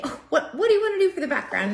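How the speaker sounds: high, fast playful question; mock eager question. Shown as a demonstration. Teacher asks class about background, eager and high. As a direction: ask the class with eager excitement. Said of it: "you can say".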